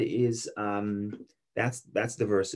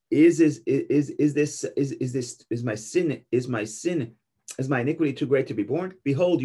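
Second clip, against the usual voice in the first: pleading Cain; 2 semitones higher, 3 dB louder than usual. Acted. Cain stammering his plea to God, voice rising in desperation. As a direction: beg for mercy, tripping over the words.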